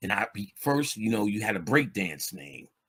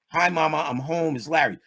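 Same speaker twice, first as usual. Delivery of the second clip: polite son; 4 semitones higher than usual. Retold or imitated. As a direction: play the good boy home to mom. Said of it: "talking to your mama".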